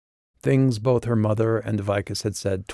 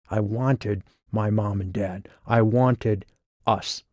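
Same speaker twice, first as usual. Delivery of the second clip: on the verge of tears; slower than usual. Acted. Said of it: "His voice was an adolescence on the verge of tears".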